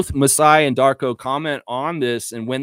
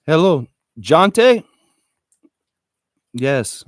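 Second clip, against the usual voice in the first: reenacted Masai phone call; 4 dB louder than usual. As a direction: play the disappointed team president firing a player. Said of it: "You guys want me to reenact the phone call".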